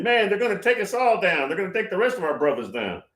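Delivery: mock Putin on the phone in a thick Russian accent; playful Russian accent impression. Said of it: "I acted like a Russian accent".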